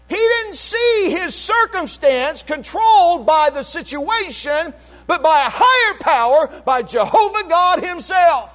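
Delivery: high, insistent preaching voice; full-force preaching. Real, not acted. Preacher questioning church about Jonah, full-force preaching. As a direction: fire questions at the congregation.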